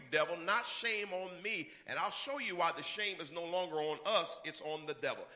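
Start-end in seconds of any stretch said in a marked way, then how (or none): none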